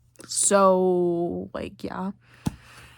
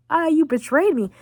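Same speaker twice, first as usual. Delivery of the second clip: higher mock-angry accusation; mock outrage; 7 semitones higher, 3 dB louder than usual. Dutch accusing his girlfriend Molly, mock outrage. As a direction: cry betrayal in mock outrage.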